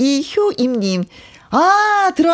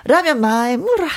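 Gyeongsang dialect, pitched up; 경상도 사투리; 4 semitones higher than usual. Acted. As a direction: read it with a raised Gyeongsang lilt. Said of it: "이것도 경상도죠". (경상도 사투리로)

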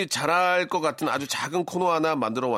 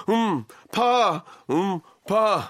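swimming while talking; 5 semitones higher, 3 dB louder, much slower than usual. Pretend. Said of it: "물에 빠진 것처럼".

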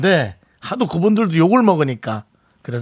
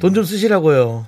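loan telemarketer; 4 semitones higher than usual. Acted. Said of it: "대출 사연 듣고 하면".

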